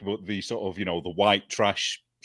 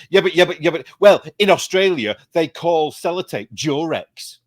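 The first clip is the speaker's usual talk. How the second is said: put-on higher, louder stroppy teen dodge, slowing at the end; imitating a student; 6 semitones higher, 6 dB louder than usual. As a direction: play the pupil who blurts out something unrelated. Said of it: "And she just went".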